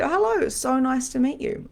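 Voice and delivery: high, sing-song welcoming hello; lightly acted high, friendly greeting; sweet greeting. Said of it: "I said".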